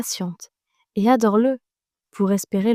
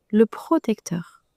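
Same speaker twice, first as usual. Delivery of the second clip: right in your ear; slower than usual. Acted. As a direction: whisper it close and slow. Intimate meditation, soft close word.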